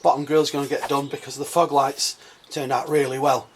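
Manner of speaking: hoarse, croaky throat; talking through a croaky throat. Real, not acted. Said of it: "Excuse my croaky voice".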